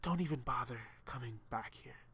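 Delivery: taunting. A narrator's reading. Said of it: "I could hear the smile in his voice as he taunted me".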